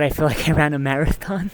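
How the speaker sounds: drained, worn out by the heat; exhausted. Real, not acted. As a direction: speak like you're overheated. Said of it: "I might be having heat exhaustion".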